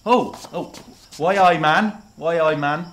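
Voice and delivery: put-on Newcastle accent, lightly done; Geordie accent. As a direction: speak with a Geordie lilt. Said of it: "I'm Geordie through and through".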